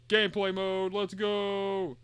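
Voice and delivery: excited. Real, not acted. Hyped start of gameplay.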